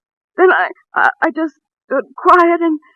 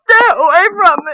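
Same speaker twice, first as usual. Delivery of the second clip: loud, raised, frightened warning; terrified plea; 4 semitones higher, 5 dB louder than usual. Acted. Terrified woman warns the advancing man away. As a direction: keep him back in terror.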